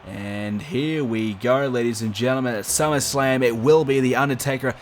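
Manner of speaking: lively wrestling play-by-play call; wrestling commentator. Acted. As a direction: call the match like a ringside announcer. Live game match commentary.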